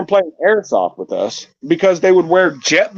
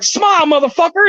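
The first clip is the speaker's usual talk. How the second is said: mock bark; 11 semitones higher than usual. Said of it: "I was like".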